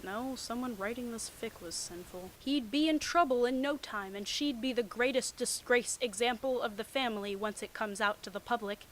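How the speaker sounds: normal talking voice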